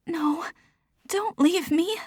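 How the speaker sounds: high, panicked begging; desperate plea. Acted. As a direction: cry out as she slips away. Desperate plea as Mom fades.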